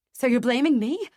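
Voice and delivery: loud, high angry snap; snapping. A narrator's reading. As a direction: snap back at him. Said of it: "I snap".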